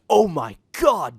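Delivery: loud, slow startled scream; Joey screams, woken by a creature in the dark. A narrator's reading. Joey screams at the creature in alarm. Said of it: "Joey screamed".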